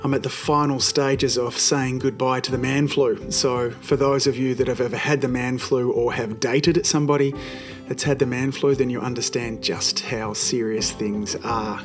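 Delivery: hoarse, croaky voice; croaky from the flu. Real, not acted. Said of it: "apologise for my croaky voice".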